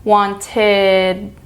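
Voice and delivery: "Wanted" ending in a light "id"; "Wanted" with the tongue tip on the roof of the mouth for "id". Shown as a demonstration. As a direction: end "Wanted" with an open "id". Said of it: "I pull my tongue back".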